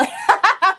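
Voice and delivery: loud, high burst of laughter; quick bright cackle of amusement. Real, not acted. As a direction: crack up briefly. Amused by her story.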